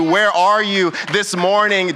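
slow, drawn-out preacher's call; slow pleading call to the church; preached question. Acted. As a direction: stretch it out to the congregation. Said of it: "preacher calls out slowly".

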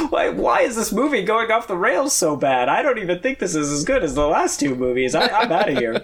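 lightly imitated exasperated actor, pitch swinging; mock dismay at a film going wrong; Michael Caine. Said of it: "Michael Caine just spent the entire movie".

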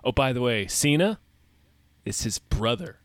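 flat, offhand line read; bad acting. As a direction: toss it off like a bad actress. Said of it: "that's how she delivers it in the trailer".

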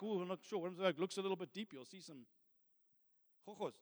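hushed, hesitant murmur trailing away; acted-out unsure mumble; timid self-doubt. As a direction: shrink back, quickly and very softly.

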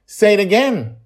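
put-on high, loud pleading child; urgent little girl. Joy insists, child voice.

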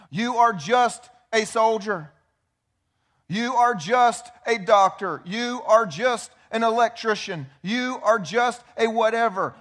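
a slow put-down that shrinks every title; belittling enemy voice. Retold or imitated. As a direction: drag it out like a sneering whisper in your ear... no, out loud and dismissive. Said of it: "the number one thing the enemy wants you to think".

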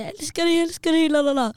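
high, doting mock-mum voice; gushing mum imitation. Mum hugging her daughter, imitated high gushing. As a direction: gush like a cuddly, loving mother. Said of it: "hon älskar att kramas och säga".

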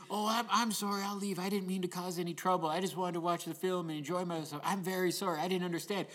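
sorry little voice, understated; sad and apologetic. Retold or imitated. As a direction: lightly imitate a contrite, meek drunk. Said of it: "he was so sad and apologetic".

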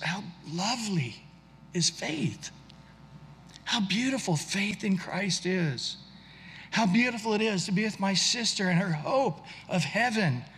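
barely holding it together over his sister's hope; choked up. Real, not acted. Moved to tears by faith.

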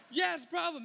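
half-laughing protest; exasperated. Retold or imitated. Exasperated passengers reply.

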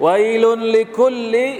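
high, loud call of woe. Acted. Preacher proclaiming the verse's woe to listeners.

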